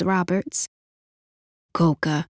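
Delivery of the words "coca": soft, husky and shy. Acted. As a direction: say it softly with a husky edge. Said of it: "speaking at last in a soft, husky voice".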